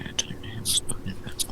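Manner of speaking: soft confused whisper. Real, not acted. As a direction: whisper it, puzzled. Late night, quiet call.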